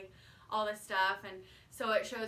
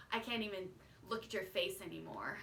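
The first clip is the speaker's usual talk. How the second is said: quiet, even delivery with no raised voice; calmly saying it; 2 semitones lower, 7 dB quieter, faster than usual. Retold or imitated. Quoting Hannah Ann returning the ring, calm and cool. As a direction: say it coolly, no screaming. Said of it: "such a calm way of saying it".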